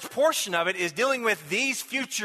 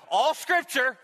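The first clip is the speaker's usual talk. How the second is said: "all" given the main emphasis; stress on ALL; 5 semitones higher, slower than usual. Shown as a demonstration. Preacher returning to the verse after explaining it, "all" emphasized. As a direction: put the weight on "all". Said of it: "I put the emphasis upon the word all".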